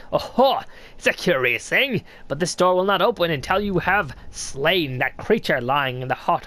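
lightly voiced sly old snail, curious; a hint of a creaky old mystic greeting a stranger; snail shaman voice. Streamer reading the shaman's greeting to the knight, lightly voiced old mystic.

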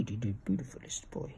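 unvoiced cooing whisper. Real, not acted. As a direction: breathe it softly, no voice. Whispered retake.

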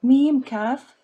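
name each letter ميم، كاف clearly for the class; spelling out letters. Shown as a demonstration. Teacher spelling letters to students, deliberate. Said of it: "Let's go back to number one".

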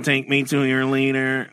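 slow, lightly voiced alien; hint of a booming arrogant alien overlord. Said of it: "we'll be the alien NPCs".

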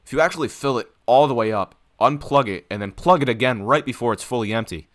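lightly voiced salesman; breezy realtor showing the house; real estate agent pitch. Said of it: "I'm selling the house to you".

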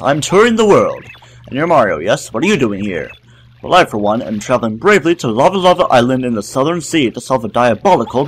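lightly voiced jolly adventurer; a hint of a proud old explorer; pompous explorer. Explorer Kolorado introducing himself to Mario, lightly hammed up.

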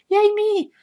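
2 high, slow little cheer for herself; 3 sing out a proud yay, drawn out; 1 self-cheer. Real, not acted. 4 vlogger cheering herself over a cheap banner, high and slow.

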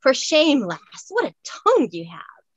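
a light Scots scolding growl; husky Scots growl. Acted. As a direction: scold the lass for her language in a Scots voice. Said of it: "a husky voice growled".

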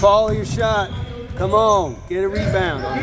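shouting from the stands. Real, not acted. Parent shouting at basketball game.

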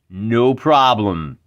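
slow, drawn-out no problem with a wink; knowing no problem. Acted. Wizard player hinting to the leader it will cost him, drawn out slowly. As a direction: stretch it out like the price is steep. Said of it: "if by no problem, I mean how deep are your pockets".

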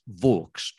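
"Vaux" with the vowel of hawks and a final ks. Shown as a demonstration. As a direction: say "Vaux" as vawks, rhyming with hawks. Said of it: "to rhyme with hawks".

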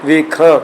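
"ਵੇਖਾਂ" with a nasalised last vowel; nasal ending. Shown as a demonstration. Teacher corrects the word, "ਵੇਖਾਂ" nasal at the end. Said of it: "ਕੰਨੇ ਉੱਪਰ ਵੀ ਬਿੰਦੀ".

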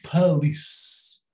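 "police" with a schwa, puh-LEES; correct police. Shown as a demonstration. Teacher correcting learners, "police" as puh-LEES. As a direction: reduce the first vowel of "police" to uh. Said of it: "mas é P".

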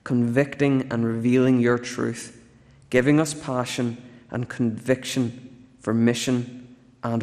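steady, earnest prayer voice. Acted. Pastor praying for the congregation, earnest prayer voice. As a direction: pray over the people, unhurried.

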